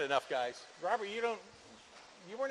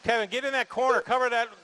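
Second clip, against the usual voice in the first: calling out; 3 semitones higher, 4 dB louder than usual. Real, not acted. Driver crashes, announcer calls out.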